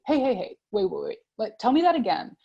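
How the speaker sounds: host cutting in. Retold or imitated. Host halting a jargon-heavy scientist, a light mock interruption. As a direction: stop the guest mid-jargon, lightly acted. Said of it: "It's my job as a host to say".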